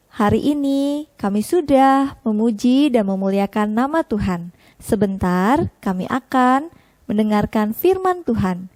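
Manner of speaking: put-on gentle spoken prayer for children. (berdoa dengan lembut)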